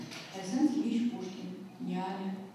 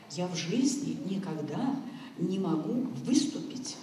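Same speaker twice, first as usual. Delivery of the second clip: emphatic admission. Retold or imitated. Retells colleague's heartfelt admission.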